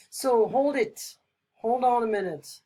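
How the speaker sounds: loud slowed-down hold it; urgent surprise. Shown as a demonstration. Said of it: "That would be like".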